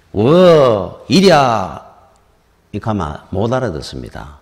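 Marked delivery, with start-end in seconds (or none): 0.1-1.8 소를 부르듯 "워" 하고 크게 외친 뒤 "이랴"; 밭에서 소를 부리는 농부처럼, 목청을 올려 "워, 이랴"; calling to the ox. Retold or imitated. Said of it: "이렇게 이야기를 하는 겁니다". (소를 세웠다 모는 농부의 외침)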